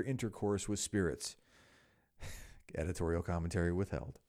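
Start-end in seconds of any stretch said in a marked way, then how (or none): 2.2-4.2 laughing aside. Real, not acted.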